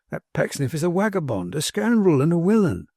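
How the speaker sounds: homespun servant calling out a rogue, pitch climbing; indignant manservant. Acted. Manservant denouncing Pecksniff to his master, indignant. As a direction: denounce him item by item in a servant's voice.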